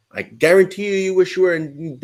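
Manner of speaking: loud insistence. Real, not acted. Heated crypto argument, insisting.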